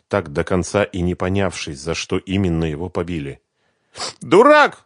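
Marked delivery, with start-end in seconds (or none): 4.2-4.8 high, loud sobbing insult. Acted. Svetlana sobs at the bass guitarist, high and loud. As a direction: sob the word out. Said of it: "схлипнула Светлана".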